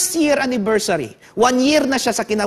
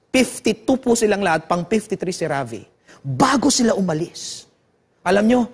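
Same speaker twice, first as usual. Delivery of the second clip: ordinary talk, nothing marked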